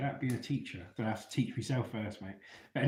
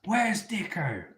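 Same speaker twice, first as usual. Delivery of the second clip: calling out; 8 semitones higher, 3 dB louder, much slower than usual. Retold or imitated. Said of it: "They go".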